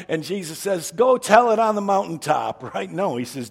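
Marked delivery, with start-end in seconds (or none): 0.9-2.6 loud, higher, jubilant announcement in jest; mock proclamation. Jesus supposedly telling Peter to spread it, loud and high. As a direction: proclaim it big and high, tongue in cheek.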